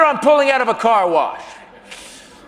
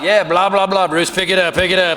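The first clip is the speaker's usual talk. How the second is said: gibberish babble; 3 dB louder than usual. Retold or imitated. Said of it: "Which must have sounded like".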